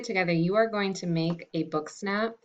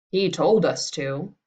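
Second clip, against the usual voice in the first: mild cry; 4 dB louder than usual. Acted. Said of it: "they cried".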